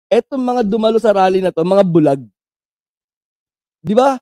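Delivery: normal talking voice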